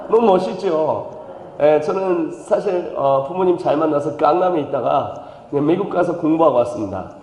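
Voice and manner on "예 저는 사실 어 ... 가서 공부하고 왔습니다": Gangnam person. Pretend. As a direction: take your time, self-satisfied. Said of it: "강남 사람이죠".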